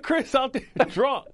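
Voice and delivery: high, slow mock coach voice breaking into a laugh; can't finish the impression for laughing; retelling the coach's line while cracking up; laughing through the coach quote. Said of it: "he's like".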